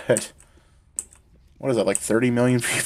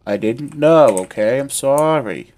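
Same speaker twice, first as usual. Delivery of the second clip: loud, higher, protesting apology; exaggerated apology; 3 semitones higher, 7 dB louder than usual. Streamer defending a mistake to chat, over-the-top protesting apology. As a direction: plead it loudly, swooping up on the key words.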